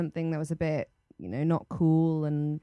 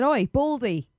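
raised, punchy taunting call; mock call-out; 5 semitones higher, 5 dB louder, slower than usual. Player retelling how she challenged him, mock call-out. Retold confrontation on the pitch.

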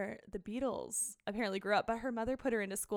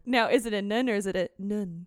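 attempted British accent; 5 dB louder than usual. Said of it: "trying to put an accent on".

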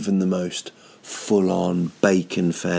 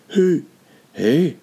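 mock demanding who; 9 semitones higher, 5 dB louder than usual. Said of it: "Me just going".

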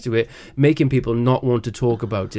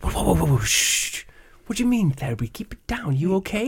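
mock alarmed friend; 5 semitones higher, 4 dB quieter than usual. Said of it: "friend leapt across the room and went".

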